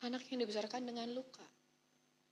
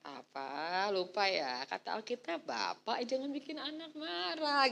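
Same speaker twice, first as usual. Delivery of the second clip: put-on polite child. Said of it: "harus baik ngomongnya".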